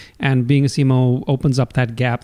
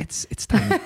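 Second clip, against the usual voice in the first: squeaky high, amused and a bit softer; amused high squeak; 9 semitones higher, 4 dB quieter than usual. Real, not acted. CMO amused as host compares Israel to Rhode Island, squeaky high. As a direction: pitch it way up, amused at how small it is. Laughing agreement about small Israel.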